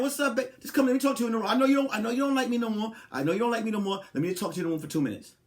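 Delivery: soft coaxing voice with a hurried plea; lightly voiced girlfriend luring him in. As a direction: sweet-talk him into the room. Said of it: "She gonna be like".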